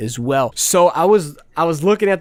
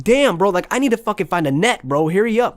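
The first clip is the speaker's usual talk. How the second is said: mad and rushed; 5 semitones higher than usual. Retold or imitated. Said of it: "it kinda got me mad".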